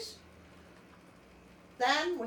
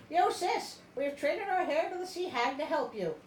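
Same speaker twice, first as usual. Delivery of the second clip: sisters; 5 semitones higher than usual. Retold or imitated. Sisters voiced in retold story.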